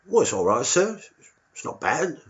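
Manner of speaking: high, timid squaddie voice; a nervous young private answering his officer; meek soldier squeaking up to the colonel. Retold or imitated. Nervous soldier voiced in film retelling.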